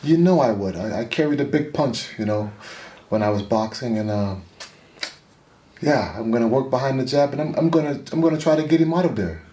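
lightly voiced veteran boxing champion; a hint of a retired heavyweight recalling his punch; Lennox Lewis. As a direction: talk like an old champion, lightly put on. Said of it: "in the impression of Lennox Lewis".

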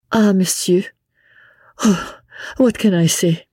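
high, halting lady's voice; elder foreign lady. A narrator's reading. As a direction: pause between phrases, as if lost for words. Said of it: "said the elder of the two ladies".

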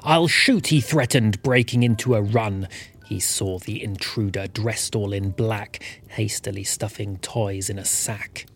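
cosy Christmas poem told in rhyme; rhyming story narration. A narrator's reading. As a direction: read it like a bedtime Christmas verse.

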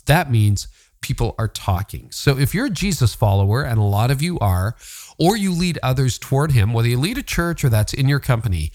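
smooth, measured podcast ad read; sponsor read. Acted. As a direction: pitch the service clearly to listeners. Reads a sponsor message.

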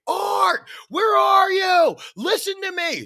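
high, loud, drawn-out shout; high desperate calling; screaming search. Retold or imitated. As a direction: scream for the lost man at sea. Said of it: "And I'm s-, screaming".

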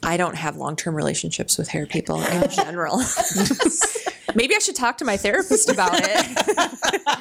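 laughing through the words; chuckling at herself. Real, not acted. Laughing at own habit.

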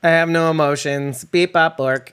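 stiff robot voice, beep bop. Pretend. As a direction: play a robot with no emotions. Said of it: "This is Bridget".

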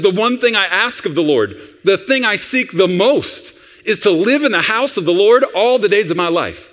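a hint of childlike longing; little boy. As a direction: recite it as an eager little boy. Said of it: "That's how a little boy talks".

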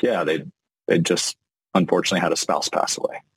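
gently grave retelling of a client's loss; somber, sitting in it. Shown as a demonstration. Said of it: "like, sit in that".

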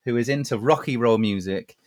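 slow, measured speech, pitched low; mock-formal gentleman. Rebellious chap explains his long hair to listeners, mock-formal. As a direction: make a solemn little declaration, unhurried.

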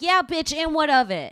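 the mother sassing the narrator, defiant; sassy defiance. Retold or imitated. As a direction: toss it back with attitude.

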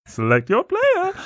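high, slow mock game announcer. Parodying a fighting game menu for the hosts, high and slow. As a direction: call it out like an arcade fighter screen.

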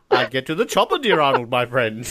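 unhurried English gentleman reply, lightly voiced; Roger Moore. Roger answering Arnold, lightly imitated gentleman. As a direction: answer as a suave film partner. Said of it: "Arnold Schwarzenegger and Roger Moore".

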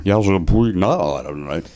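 lightly tipsy play-by-play voice; Ross Porter. Acted. Host repeats the Puig bit, drunk announcer voice. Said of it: "a Ross Porter impression".

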